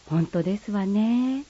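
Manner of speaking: lightly voiced refined lady, polite standard speech; polite standard Japanese. Friend replying politely in light standard Japanese. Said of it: "標準語と鹿児島弁".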